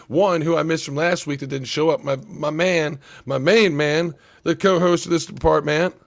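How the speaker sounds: loud excited announcer build-up; hype intro. Real, not acted. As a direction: call him out like a host. Hyping up the co-host's entrance.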